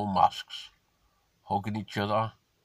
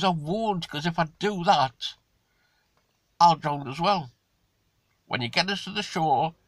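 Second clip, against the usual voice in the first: higher, earnest scorpion voice; scorpion reassuring; 5 semitones higher than usual. Acted. Scorpion convincing the frog it won't sting, higher. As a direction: promise him you won't sting, pitched up.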